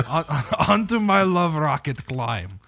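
mock seductive invitation, laughing; hammed-up love rocket line. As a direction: ham it up like a goofy wigged crooner. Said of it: "That's, like, a thing that he says".

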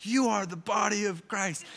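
mimicking a child's sing-song announcement; imitating a little boy. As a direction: say it like a six-year-old proudly reciting a school song. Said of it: "He's like".

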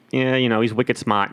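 put-on casual Boston accent. Host quoting own talk to wife, Boston accent. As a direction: slip offhand into a Boston accent. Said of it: "don't even realize I'm doing it".

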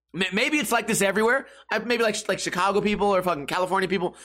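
normal talking voice

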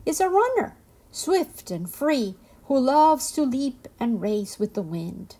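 high, eager insistence; lively, insistent storybook antelope. A narrator's reading. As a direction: pitch it up and press the point. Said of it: "insisted the antelope".

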